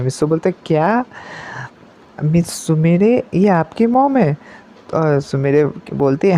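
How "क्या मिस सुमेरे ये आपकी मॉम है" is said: jolted, voice jumping up in surprise; shocked question. Acted. Mitso finding his teacher's mom is here, shocked. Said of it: "पूरा shocked हो जाता है".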